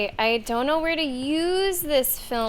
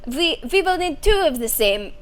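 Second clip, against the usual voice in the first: put-on hammy German accent, pitched up; 5 semitones higher than usual. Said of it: "I do a very bad German accent".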